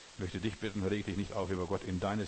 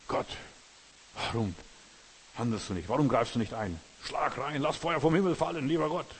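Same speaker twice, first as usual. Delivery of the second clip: loud, higher outcry at God; demanding plea; 3 semitones higher, 4 dB louder than usual. Acted. A believer railing at God to send fire, loud demand. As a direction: demand that God strike now.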